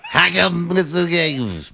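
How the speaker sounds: high, choked mock announcer; choking grandfather. Mocking Sarge's stadium call, choking grandfather impression. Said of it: "sounds like Sarge's, like, grandfather, like, choking".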